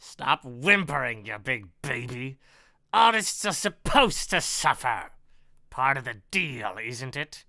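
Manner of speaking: lightly voiced villain's sneer; mock the victim with mild contempt. Villain belittles the writer he wounded, mildly sneering. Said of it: "He sneers at Jack's distress".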